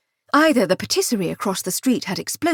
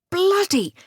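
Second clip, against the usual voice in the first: thug's curse; 10 semitones higher than usual. A narrator's reading. Thief hit.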